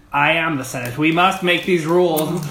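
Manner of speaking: lightly voiced scheming senator; pompous villain. Imitating Palpatine's line.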